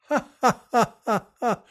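mascot's mock silent laughter; mimed silent laugh. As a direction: imitate a silent shaking laugh. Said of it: "silently laugh".

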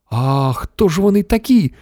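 high-pitched puzzled question; astonished. A narrator's reading. Shanks wonders who the strangers are, astonished. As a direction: ask it in surprise. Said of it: "здивувався Шанкс".

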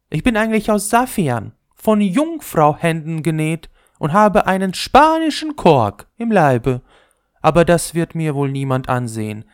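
put-on the swollen old ball bragging to the top; old ball, still vain. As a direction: boast as if still a young girl. Old ball telling its story.

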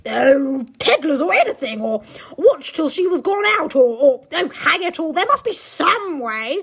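Peter's voice. Acted. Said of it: "Peter's voice".

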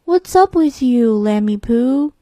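cow voice. Acted. Cow's voice in story.

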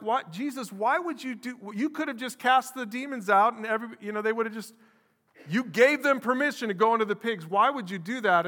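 high, incredulous questioning of Jesus; baffled outcry. Retold or imitated. Pastor voicing his own disbelief, loud and incredulous. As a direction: voice your own shock on reading it. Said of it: "I read that and I'm like".

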